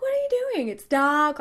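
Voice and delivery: high-pitched, incredulous retold objection; mock exasperation, starting very high; retold protest. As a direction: protest as if he's being ridiculous.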